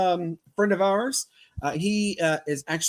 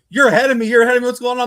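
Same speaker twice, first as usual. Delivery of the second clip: louder, higher retold protest; mock excited friend; 7 semitones higher, 8 dB louder, much faster than usual. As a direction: replay the friend's confused shout. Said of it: "And he's like".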